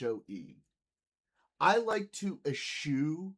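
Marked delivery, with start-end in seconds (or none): 1.6-3.3 mock serious. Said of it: "I'm taking it so seriously".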